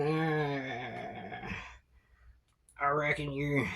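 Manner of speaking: half-hearted goblin host voice; lightly voiced old goblin. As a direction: invite them in, warming up. Goblin invites them in.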